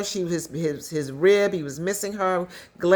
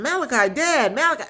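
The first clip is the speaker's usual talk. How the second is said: mock calling out, higher pitch; lightly acted raised-pitch calls; calling after him; 6 semitones higher than usual. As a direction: imitate people calling someone back. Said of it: "People are calling him".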